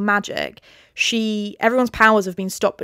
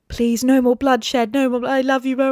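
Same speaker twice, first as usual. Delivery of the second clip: mock pleading; 4 semitones higher than usual. Feyre fakes love to Tamlin, high mock pleading. Acted plea to Tamlin in retelling.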